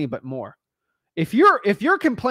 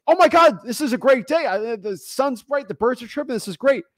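much higher and louder, bursting with glee; excited lively person; 7 semitones higher, 4 dB louder than usual. Retold or imitated. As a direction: gush like the happiest person alive. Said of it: "really excited and lively and excited".

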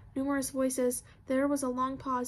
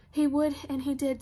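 louder, emphatic certainty; firm insistence; 5 dB louder than usual. Acted. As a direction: state it with sudden conviction. Firm insistence after being doubted.

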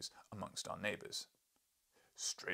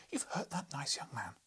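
understated scream, higher-pitched scolding; mild acted scream; 5 semitones higher than usual. Wife accusing husband of hurting young man, mild acted scream. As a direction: scold as an angry wife, higher but contained. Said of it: "she screamed".

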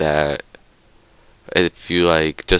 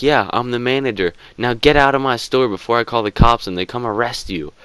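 higher, threatening, lightly hammed; mock angry manager; 6 semitones higher than usual. Manager throwing the boys out of his store, mock angry. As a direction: imitate him threatening to call the cops. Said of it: "the guy's like".

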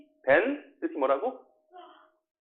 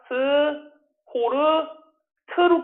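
separated sounds, each pitched higher; syllable by syllable; 8 semitones higher, much slower than usual. Shown as a demonstration. Teacher breaks the word down for students, syllable by syllable. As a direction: sound it out piece by piece.

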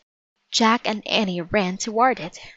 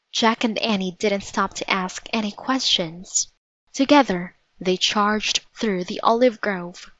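usual speaking voice

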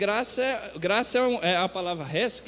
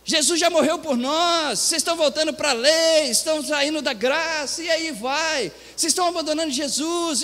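higher-pitched mock protest; scandalized protest, voice raised in pitch; indignant outcry; 6 semitones higher than usual. Voices outraged evangelical commenters.

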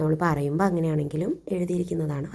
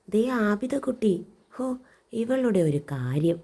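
fond exasperation; 5 semitones higher, slower than usual. Acted. Kite spots the girl below.

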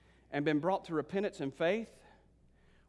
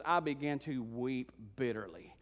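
grieving John; 5 semitones lower, 3 dB quieter, slower than usual. Acted. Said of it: "And then John says".

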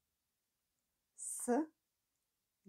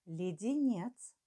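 dictating; slower than usual. Shown as a demonstration. Dictation, word said twice.

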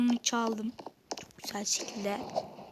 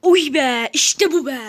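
loud burst of triumph; 7 dB louder than usual. Real, not acted. Streamer after winning a fight, loud triumphant cheer. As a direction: cheer the win.

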